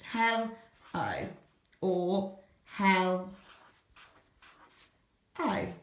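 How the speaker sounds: hell and O said apart with a pause; split hello. Shown as a demonstration. Teacher shows how children hear hell O. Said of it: "they might write it like this".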